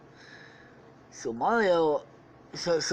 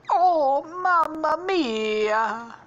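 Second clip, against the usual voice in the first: high, loud cartoon death cry; Stampy; 12 semitones higher, 6 dB louder, much slower than usual. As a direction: draw it out in a high put-on wail. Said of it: "Stampy's just like".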